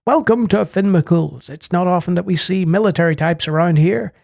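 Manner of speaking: weak attempt at an Irish accent; half-hearted Irish brogue; failed Irish accent. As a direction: try an Irish barman and barely manage it. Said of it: "Sorry, I can't do an Irish accent".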